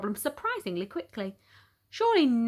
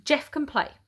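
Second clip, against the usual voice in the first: firmly; 5 semitones higher than usual. Retold or imitated. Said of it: "I said firmly".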